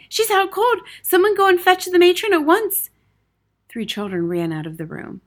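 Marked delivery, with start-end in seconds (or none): 0.1-2.9 high, urgent call for help; pressing, high-pitched order; crying out. A narrator's reading. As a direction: raise the alarm loudly. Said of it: "she cried".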